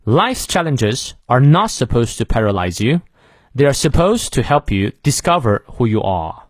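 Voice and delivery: slow model reading, weight on "challenges", "not" and "supposed"; content words stressed. Shown as a demonstration. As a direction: lean on "not" and "supposed" for learners to repeat. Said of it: "实词重读".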